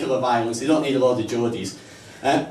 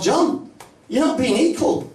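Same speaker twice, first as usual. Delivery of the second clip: mock urging; 10 semitones higher, slower than usual. Urging disabled skier to fall.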